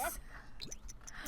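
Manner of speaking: soft drawn-in gasp of anticipation; excited gasp. Pretend. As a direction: gasp quietly before the big reveal. Mock suspense before big news.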